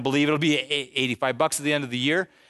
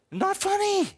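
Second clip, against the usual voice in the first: high, sing-song mock reproach; mock scolding. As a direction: tease it like a playful scold. Laughing at the laid-off nephew.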